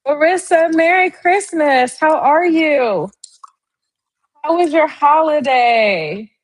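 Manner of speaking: high, bright sing-song hello to a viewer; excited greeting. Real, not acted. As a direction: call out happily to a friend in chat.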